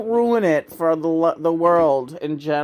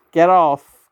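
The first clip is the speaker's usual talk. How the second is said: louder, punched order; loud command; 7 dB louder than usual. Real, not acted. Repeatedly ordering someone off, loudly.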